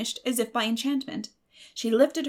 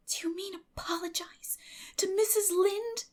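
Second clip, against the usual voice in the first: put-on much higher, girlish and doubtful; a girl startled by the idea; Anne, surprised; 11 semitones higher than usual. Anne's voice.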